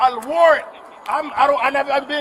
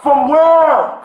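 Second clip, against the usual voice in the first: loud, angry question; angry demand; 5 dB louder than usual. Real, not acted. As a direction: demand an answer, fed up. Arguing with officers.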